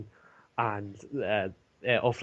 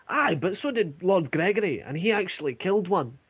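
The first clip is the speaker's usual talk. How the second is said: raised, louder guard's retort; a soldier scoffing back at his mate, pitched up; 8 semitones higher, 4 dB louder than usual. Acted. Guard to guard, a raised mocking retort.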